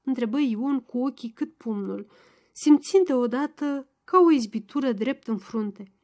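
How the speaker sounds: plain reading voice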